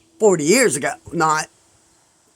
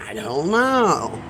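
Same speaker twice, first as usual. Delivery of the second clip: helpless; slower than usual. Retold or imitated. Retold helpless answer to friends.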